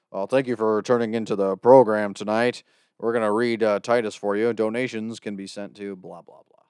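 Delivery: put-on old-time radio host voice; lightly voiced radio announcer; old radio guy. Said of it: "now I sound like an old radio guy".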